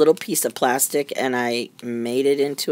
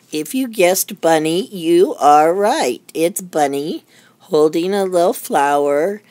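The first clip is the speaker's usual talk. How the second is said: excited reveal; 5 semitones higher, 5 dB louder than usual. Real, not acted. Playful reveal of the bunny.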